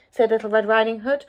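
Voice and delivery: put-on lively read-aloud voice for children; storybook narration. A narrator's reading. Narrator reading a fairy tale to children, lively storytelling. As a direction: tell the tale with wide swings for young listeners.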